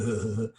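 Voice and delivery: soft, puny "huh" pulses; imitated phone alarm. Prankster's phone playing alarm recording, soft feeble imitation. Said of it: "his phone going".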